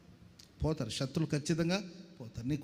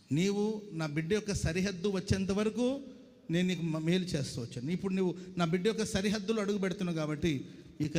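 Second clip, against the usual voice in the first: stern God. Pretend. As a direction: thunder a warning at the enemy king. God threatening the Assyrian king.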